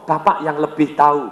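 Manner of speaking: deferential. Shown as a demonstration. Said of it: "Anda ngomong".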